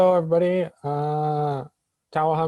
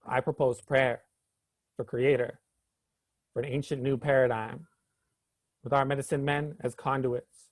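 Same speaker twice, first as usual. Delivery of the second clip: measured, rhythmic poetry recitation; spoken word poem. Acted. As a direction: deliver it as a protest poem, phrase by phrase. Recites own protest poem.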